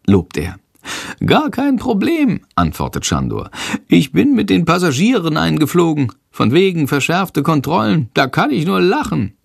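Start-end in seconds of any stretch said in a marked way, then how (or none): 1.2-9.3 high, cocky bat voice; high and smug, a squeaky bat; boastful little bat. Acted. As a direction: brag like a tiny bat who fooled everyone. Schandor boasting.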